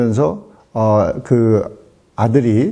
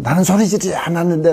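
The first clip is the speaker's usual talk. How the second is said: higher, put-on defensive whine; mock innocent denial; 5 semitones higher, faster than usual. Husband protests to his wife, mock defensive denial. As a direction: play it wide-eyed and wounded.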